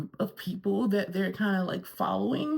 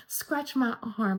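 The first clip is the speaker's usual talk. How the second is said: lightly imitated drowsy Southern mom; mock a mom half asleep at the table; Victoria; 3 semitones higher than usual. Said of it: "and Victoria, who's like".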